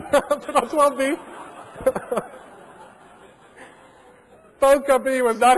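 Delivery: laughing through the punchline. Real, not acted. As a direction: chuckle the words out. Laughing while telling prank.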